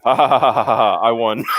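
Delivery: gloating mock laugh; triumphant laugh. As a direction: cackle at your win. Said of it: "Michael Beacon".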